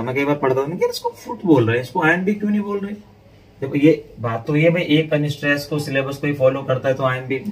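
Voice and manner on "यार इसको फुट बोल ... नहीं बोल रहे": high, quick retold puzzlement; mock-baffled complaint to oneself; puzzled inner question. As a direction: replay your own student-day confusion, pitched up. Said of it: "ये मेरे दिमाग में आता था".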